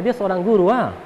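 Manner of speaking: hint of Kupang speech with tag "ah"; Kupang dialect. Shown as a demonstration. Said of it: "Kalau bahasa Kupangnya". (logat Kupang)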